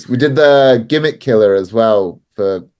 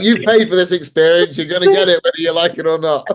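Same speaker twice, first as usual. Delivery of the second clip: mock Russian accent; 7 semitones higher than usual. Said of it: "I was like".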